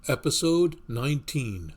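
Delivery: horror host. Acted. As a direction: announce it like a creepy movie trailer. Horror-style show title intro.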